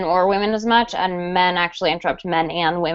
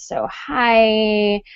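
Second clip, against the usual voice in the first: vocal fry; 2 semitones higher than usual. Shown as a demonstration. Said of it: "they have that kind of fry at the end of it".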